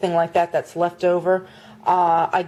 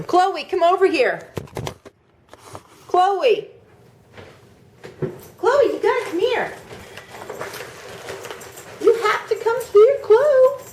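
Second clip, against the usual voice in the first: calling dogs; 12 semitones higher than usual. Real, not acted.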